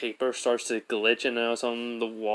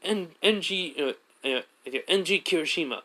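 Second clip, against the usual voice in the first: higher, bubbly self-introduction; cheery higher Kirishima; 6 semitones higher than usual. Retold or imitated. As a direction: pitch up, eager and friendly. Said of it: "Kirishima was like".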